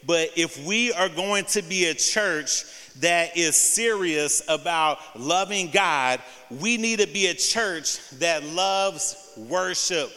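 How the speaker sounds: deliberate, spaced-out phrasing for note-takers. Shown as a demonstration. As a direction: give each phrase room so they can write it down. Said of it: "I'm gonna say it a little slower".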